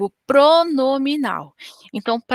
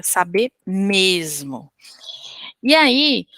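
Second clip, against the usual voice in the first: whisper; 2 semitones lower, slower than usual. Real, not acted. Aside whispered to students.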